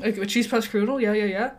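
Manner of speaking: cutting in over the contestant's answer; interrupting host. Acted. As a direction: talk right over them, parroting and brushing them off. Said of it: "he just talks over them".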